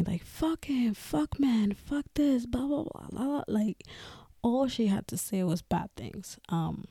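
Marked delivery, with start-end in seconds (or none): 0.2-3.4 higher, quieter mock rant by a pushy friend; imitating a ranting friend. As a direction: lightly voice her friend trashing the ex. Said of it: "She would always tell me".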